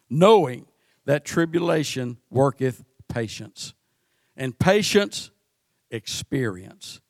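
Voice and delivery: scripture reading. Acted. Reads scripture aloud.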